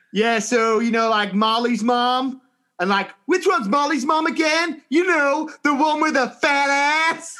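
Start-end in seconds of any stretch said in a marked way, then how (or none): 0.1-2.4 mock Californian mom. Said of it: "imagining what some of the Californians". 3.3-7.4 mock Californian gossip. Mocking Californian parents in a group chat, shrill catty voice. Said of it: "what some of the Californians were saying".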